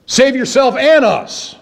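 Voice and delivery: the selfish thief begging from his cross, slowed and pleading; mock selfish plea. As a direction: drag it out like a grasping thief. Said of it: "you talk about a selfish motive".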